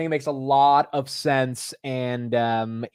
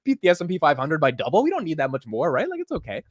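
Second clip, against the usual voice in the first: mock excuse-making; 6 semitones higher than usual. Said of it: "I'm like".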